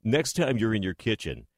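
lightly voiced radio host, measured delivery; a hint of a veteran DJ, deliberately paced; Rick Dees impression. Co-host retelling a DJ's frying pan advice, lightly imitated host voice. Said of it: "I'll try and do it in my Rick voice".

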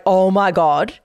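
like the first bite blew him away; amazed. Retold or imitated. Tyrone, tasting her toast, blurts out amazed. Boyfriend tastes the rye toast.

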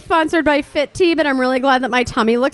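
put-on high valley girl voice; influencer parody. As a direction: vapid influencer gushing. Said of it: "that other chick is".

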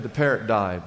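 low-pitched, understated sadness; mildly mournful, imitating a bereaved owner; sad. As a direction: retell sad news in a dropped voice. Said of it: "she's sad".

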